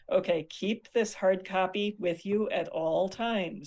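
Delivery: slow, deliberate teacher's instruction; emphatic instruction. Retold or imitated. Teacher to students handing out a chart, emphatic instruction. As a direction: spell it out firmly, word by word. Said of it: "and I'm like".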